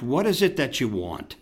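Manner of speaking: mildly irritated retold snap. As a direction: clip it out like an interrupted father. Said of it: "So I snapped".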